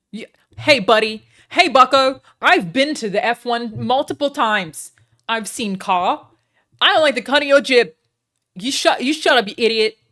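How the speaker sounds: loud, high, ranting insults; mock angry yell. Streamer yelling at chat on request, hammed-up rage. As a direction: bellow at chat like a picking-a-fight bloke. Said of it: "Am I doing it, you guys?".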